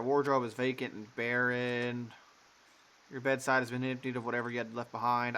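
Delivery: measured narrator read; game narration. Acted. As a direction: set the scene like a storyteller.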